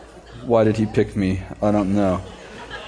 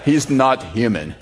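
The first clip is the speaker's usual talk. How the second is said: grave Russian boxer; slower than usual. Retold or imitated. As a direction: spell it out slowly in disbelief. Repeats the Russian boxer's line.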